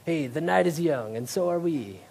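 light, imitated Italian waiter's accent. Waiter to indecisive diners, in a loosely imitated Italian accent. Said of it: "in his Italian accent would just be like".

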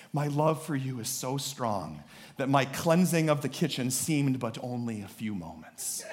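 woo her like a romance novel; sappy romantic husband. Acted. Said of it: "it's like a sappy romance novel".

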